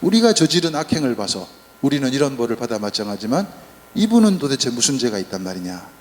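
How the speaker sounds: scolding rebuke. Retold or imitated. Good thief scolding the mocking thief, firm rebuke. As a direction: snap at a fellow convict to shut up. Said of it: "좌도에게 야단을 칩니다".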